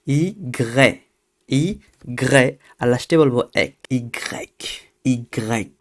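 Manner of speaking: "ইগ্রেক" said syllable by syllable, ই then গ্রে then ক; French Y. Shown as a demonstration. Teacher builds up "ইগ্রেক" for students. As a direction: build "ইগ্রেক" slowly piece by piece. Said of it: "আমরা সর্বপ্রথম বলবো ই".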